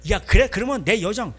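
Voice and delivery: loud, acted comeback; heated retort. Rachel offering her maid mid-quarrel, heated retort. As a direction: fire back in the heat of the quarrel. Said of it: "이 사람들이 배는 게 없어".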